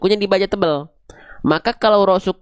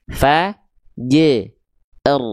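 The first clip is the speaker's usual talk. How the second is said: "Fa, j, r" in three separate pieces; dipenggal satu-satu; 3 semitones lower, much slower than usual. Shown as a demonstration. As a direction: pause after each sound of "Fa, j, r". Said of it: "kalau kita penggal satu-satu dulu". ("Fa, j, r" dipenggal, ada jeda tiap bunyi)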